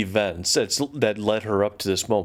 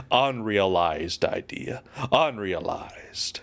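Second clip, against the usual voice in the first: put-on English accent; 3 semitones lower, slower than usual. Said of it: "he is an Englishman".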